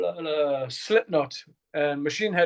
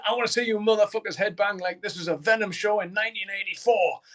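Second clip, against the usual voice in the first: frontman stage shout; 5 semitones higher than usual. Retold or imitated. Metal singer shouting to the arena crowd, rallying yell. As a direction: belt it out to the whole arena. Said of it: "he says".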